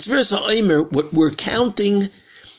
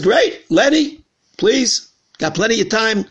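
higher-pitched, lightly acted delight; retold eager invitation, pitched up; eager welcome; 5 semitones higher than usual. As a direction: act out a rabbi pleased by an offer. Rabbi eagerly welcomes an offered donation.

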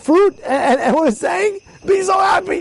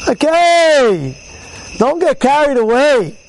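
raised admonishing voice; 3 semitones higher, 3 dB louder, much slower than usual. Real, not acted. Reining in an excited listener.

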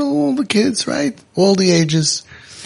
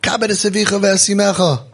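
chanted Bible quote, higher; lightly sung scripture; quoting scripture; 6 semitones higher than usual. Retold or imitated. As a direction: intone it like a verse. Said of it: "quoting the Bible".

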